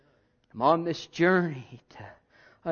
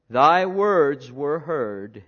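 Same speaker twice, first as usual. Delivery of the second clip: slow; 3 semitones lower, 4 dB louder, much slower than usual. Acted. Solemn close of reading.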